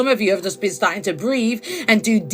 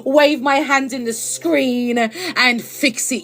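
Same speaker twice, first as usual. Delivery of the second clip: mocking fake healer. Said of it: "cast an illusion and tell you".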